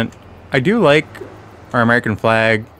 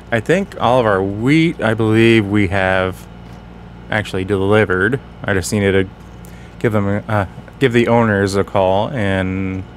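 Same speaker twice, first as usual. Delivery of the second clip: sore tongue, careful speech; talking around a bitten tongue. Real, not acted. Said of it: "If it sounds like I'm talking a little funny, it's because I bit my tongue".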